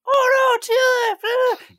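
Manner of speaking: high, loud shriek of alarm; panicked shout. Retold or imitated. Harp spotting Jack, shrieking in high loud alarm. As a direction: cry out in shrill panic.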